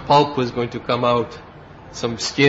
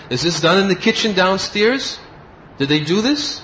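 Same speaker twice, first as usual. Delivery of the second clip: stern questioning; 6 semitones higher, 3 dB louder than usual. Retold or imitated. Guru scolding disciple.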